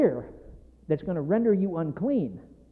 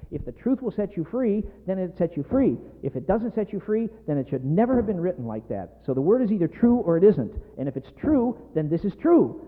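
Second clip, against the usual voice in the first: impassioned, emphatic preaching; worked up. Real, not acted. Preacher insisting the truth sets free, worked up. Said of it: "I'm getting worked up now".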